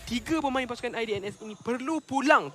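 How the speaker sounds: excited play-by-play. Acted. Hype moment in live casting.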